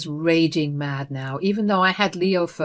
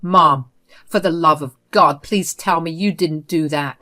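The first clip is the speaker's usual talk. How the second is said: louder, tightly held-back anger; suppressed rage; 5 dB louder than usual. Acted. Son to his mother after learning about the dog, suppressed rage. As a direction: keep the fury under the lid but let it push through. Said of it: "said with suppressed rage".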